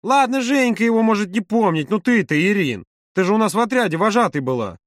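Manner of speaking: high, insistent appeal; impatient urging. A narrator's reading. Маша urges friends to remember. (настойчиво, высоким голосом)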